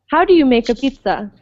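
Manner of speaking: "how do you make a pizza" going down at the end; brisk model question with "pizza" falling; falling question intonation. Shown as a demonstration. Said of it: "have a falling intonation".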